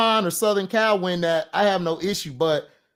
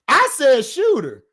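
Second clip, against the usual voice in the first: "I said shooter" slow and higher, each word set apart; making the point to the co-host; 7 semitones higher, 3 dB louder than usual. Real, not acted. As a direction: spell it out slowly. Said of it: "No, I did not say shooter".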